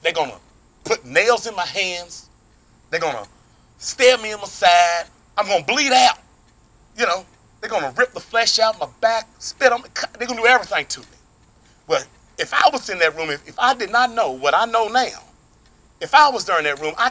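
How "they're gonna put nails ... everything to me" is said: a lightly voiced Jesus warning his friends, rising toward an outcry. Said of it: "Jesus turns around and says".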